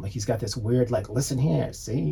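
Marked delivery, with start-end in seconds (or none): 1.1-2.1 put-on old-timey voice. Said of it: "Like, old-timey voice".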